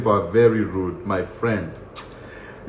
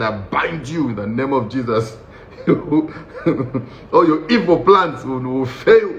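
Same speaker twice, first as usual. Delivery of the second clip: mock prayer; 3 semitones higher than usual. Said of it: "I started speaking in tongues".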